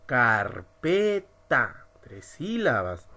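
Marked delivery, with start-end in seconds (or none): 0.1-1.9 'carpeta' in three separate syllables; silabeado. Shown as a demonstration. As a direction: sound out car, pe, ta one by one. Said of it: "Ahora vamos a pronunciar". ('carpeta' sílaba por sílaba: car-pe-ta)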